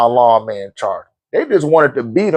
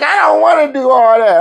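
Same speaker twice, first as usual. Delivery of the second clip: imitating wife; 9 semitones higher than usual. Wife voiced in story.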